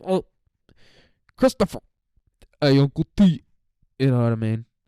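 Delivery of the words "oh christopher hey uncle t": high, loud, froggy puppet-like voice. Retelling a dream where Tony Soprano talked: Tony Soprano sounding like Kermit. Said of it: "like Kermit".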